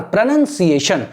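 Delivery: प्रोनंसिएशन repeated carefully with "nun" in the middle; teacher drilling प्रोनंसिएशन in clear syllables; pronunciation drill. Shown as a demonstration. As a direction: sound out each syllable of प्रोनंसिएशन, "nun" not "noun". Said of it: "ऐसे करके बोलना है आपको".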